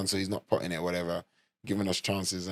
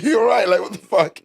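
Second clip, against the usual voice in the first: mock disbelief; 11 semitones higher, 7 dB louder than usual. Retold reaction, high and put on.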